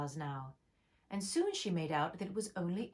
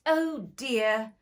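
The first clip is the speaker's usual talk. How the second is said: sorrowful; 4 semitones higher, 7 dB louder than usual. Acted. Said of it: "cried Alice in a sorrowful tone".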